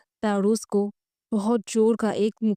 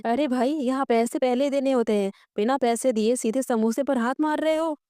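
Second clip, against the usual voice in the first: shopkeeper's raised, higher yell; mild mock shout; 4 semitones higher than usual. Shopkeeper scolds Takshak for grabbing samosa, mild mock yell. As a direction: call out the customer with a lightly acted shout. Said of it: "जोर से चिल्लाते हुए बोलता है".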